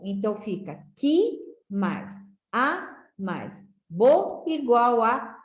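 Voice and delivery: spelled out slowly, each letter set apart; slow letter-by-letter spelling. Shown as a demonstration. Teacher spelling quatro out for pupils, slowly. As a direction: build the word for the class piece by piece. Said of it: "precisei juntar também as sílabas".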